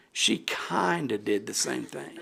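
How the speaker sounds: slow, laughing through the words; chuckling while remembering her mother. Real, not acted. Thanking the board for honoring her mother, laughing.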